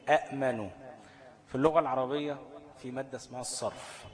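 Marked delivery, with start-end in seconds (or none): 0.1-0.7 short a, glottal stop, then "manu" in "أأمنوا"; "أأمنوا" with the second hamza sounded, unvowelled; two glottal stops. Shown as a demonstration. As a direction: say "أأمنوا" with a hard catch after the first a. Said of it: "همزتين ورا بعض التانية ساكنة".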